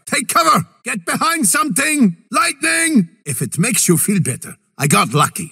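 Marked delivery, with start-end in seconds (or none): 0.0-3.1 higher, sharp battle shout; alarmed callout; urgent warning. Acted. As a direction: yell at them to get down. Warning team of attack.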